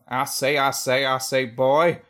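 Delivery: put-on a touch of Southern drawl, loud on "boy"; lightly voiced Southern colonel calling out; Southern accent. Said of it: "Southern, would that be like".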